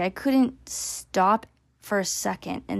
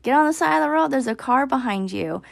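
shouted warning, higher and louder; retold yell; 6 semitones higher, 4 dB louder than usual. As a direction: call out sharply to a kid on a bike near a car. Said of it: "So I yelled to my son".

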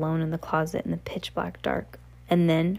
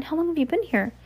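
higher-pitched, lightly acted concern; concerned question; 10 semitones higher, faster than usual. A narrator's reading. Coraline asking the trapped children, concerned. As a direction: ask it high, as the sympathetic girl.

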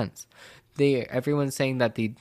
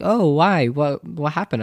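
mock surprise, higher and louder at first; imitated curious reaction; 4 semitones higher, 4 dB louder than usual. Classmates react to kicked-out news, imitated surprise. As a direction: lightly act out a startled question. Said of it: "they're like".

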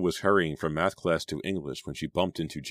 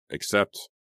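EXCEPT left hanging, pitched higher; trailing off; 5 semitones higher, 3 dB louder than usual. A narrator's reading. Girl hesitant about rehearsal, trailing off on "except". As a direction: let "except" hang unfinished. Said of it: "Selina's voice trailed off".

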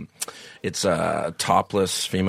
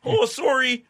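"sorry" called out high and loud in a Canadian accent; Canadian accent, sorry shouted across the yard; Canadian sorry yelled; 3 dB louder, slower than usual. Shown as a demonstration. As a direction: yell "Oh, sorry" Canadian style, like to a far-off neighbor. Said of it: "It's from far away".

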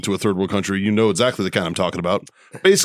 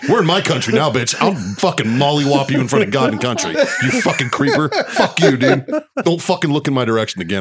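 mock-furious rant with laughs breaking in; retold angry tirade; 3 semitones higher than usual. Retelling how he cursed out the creep, half-laughing tirade. Cursing out creep after flight.

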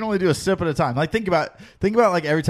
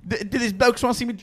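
put-on New Zealand accent; 5 semitones higher than usual. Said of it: "he has, like, a New Zealand accent".

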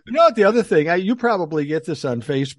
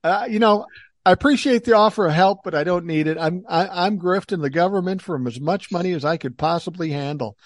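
mock flattery; 4 semitones higher, 3 dB louder than usual. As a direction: tease the scammer sweetly. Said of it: "I go".

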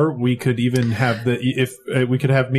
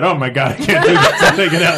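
laughing; 4 dB louder than usual. Retold or imitated. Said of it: "maybe just have her say that".

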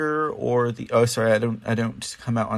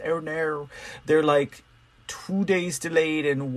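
slightly high, playful little lament; mock dismay; 4 semitones higher than usual. Podcaster bemoans poetry readings always running late, mock dismay. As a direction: toss in a small mock "oh no".

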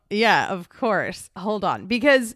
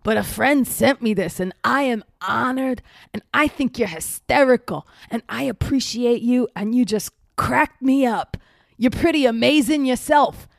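licht gespeelde Steve-imitatie, traag en slepend; Steve-stem; 3 semitones higher than usual. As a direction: doe David Eigenberg als Steve, rustig en loom. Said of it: "I'll do it in his voice".

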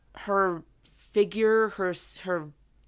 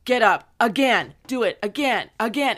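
barking drill orders, louder; drill sergeant; 2 semitones higher, 6 dB louder than usual. Retold or imitated. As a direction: drill sergeant repeating again. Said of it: "It's like a drill sergeant".

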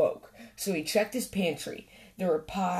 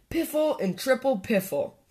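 higher-pitched grumpy dismissal; scornful snort; 6 semitones higher than usual. A narrator's reading. Badger refusing Squirrel's present, grumpy scorn. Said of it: "snorted Grumpy Badger".

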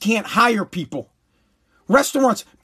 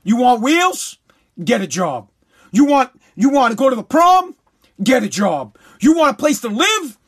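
blunt father lecture. Retold or imitated. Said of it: "my dad was straight up".

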